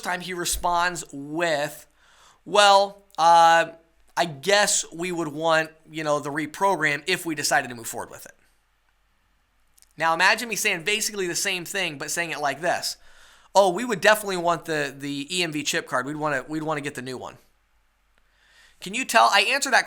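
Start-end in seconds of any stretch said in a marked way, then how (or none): 2.5-8.3 reluctant, hedging buyer; hesitant, uninterested. Shown as a demonstration. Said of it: "listen to the difference in the way that I say it". 13.5-17.4 eager buyer, definite and ready; eager, keen. Shown as a demonstration. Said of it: "listen to the difference in the way that I say it".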